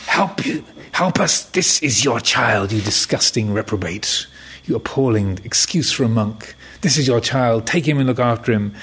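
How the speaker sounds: a lightly acted furious parent telling off the monk; indignant parents. Parents dumping the baby on the monk, scolding him indignantly.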